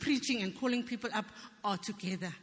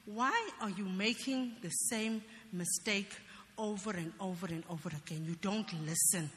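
slow, weary reproach; sick and tired; 3 semitones lower than usual. Retold or imitated. Inner voice chiding her for repeated mistakes, sick and tired. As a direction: scold slowly, as if tired of repeating it. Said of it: "like someone was sick and tired of me".

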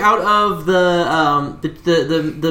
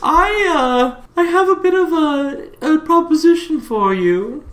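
smooth villain voice; 9 semitones higher than usual. Acted. GM voicing Hugo the guild boss.

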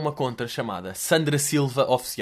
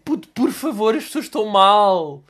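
pleading, pitched up and strained; high desperate plea; 5 semitones higher, 5 dB louder than usual. Retold or imitated. Passenger begging the slow driver, high and desperate. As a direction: beg the driver to hurry, voice rising.

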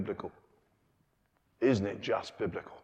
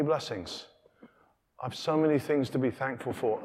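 pleading father; 3 semitones higher, 4 dB louder than usual. Acted. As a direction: coax the son to see. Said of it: "He says".

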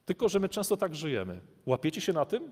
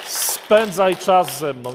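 emphatic plea; 4 semitones higher, 12 dB louder, much slower than usual. Acted. God pleading to spend time.

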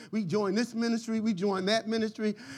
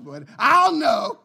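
laughing punchline; 3 semitones higher, 8 dB louder, slower than usual. Real, not acted. Punchline of his joke.

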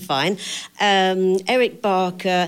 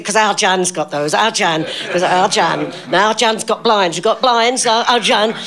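lightly voiced proud Northern mum, a little louder; mock Thora Hird; 2 semitones higher, 4 dB louder than usual. Vera imitates Thora Hird boasting about her daughter Jan, lightly voiced. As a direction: brag about the daughter in a half-done voice.

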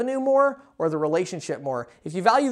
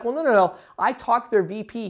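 higher-pitched imitation of an objector; mock protest; 3 semitones higher than usual. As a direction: play someone lightly insisting otherwise. Imagined listener objecting to the speaker.

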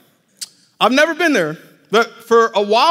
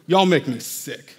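low, slow pretend contempt; mock disgust; 4 semitones lower than usual. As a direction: drop down into hammed-up disgust. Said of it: "how ridiculous would it be".

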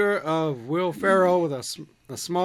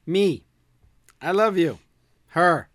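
smug ex mock; 5 dB louder than usual. Mocking arrogant ex, laughing.

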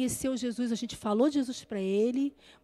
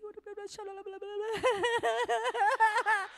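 laugh; 9 semitones higher, 4 dB quieter than usual. Acted. Mock worship scene laughter.

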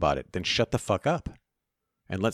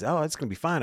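mocking Trump; 10 semitones higher than usual. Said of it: "but Trump says".

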